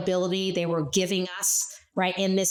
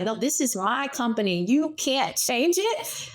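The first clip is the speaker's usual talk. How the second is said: indignant customer; 5 semitones higher than usual. Retold or imitated. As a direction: drag out the protest like an indignant client. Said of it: "the customer's like".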